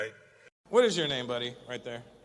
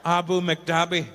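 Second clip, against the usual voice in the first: slow, louder mock Irish place name; mock local Irish; 5 dB louder, slower than usual. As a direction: ham up a local Irish sound. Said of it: "to make it sound more local".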